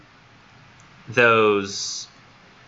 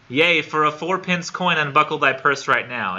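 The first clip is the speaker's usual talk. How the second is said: mock olde-English sales pitch; 5 semitones higher than usual. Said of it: "he says".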